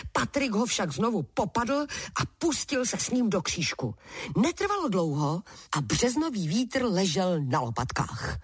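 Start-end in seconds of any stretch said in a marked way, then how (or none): none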